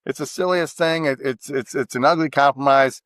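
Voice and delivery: ordinary talk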